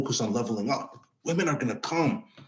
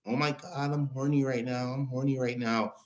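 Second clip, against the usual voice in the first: mock swooning girlfriend; 7 dB quieter than usual. Mocking girlfriend's sudden change.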